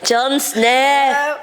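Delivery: Jon Snow in a high put-on voice, drawn out; impression of him. Teasing a friend with the actor's voice, high and drawn out. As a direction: imitate how the character says his own name. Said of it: "that's how he says it".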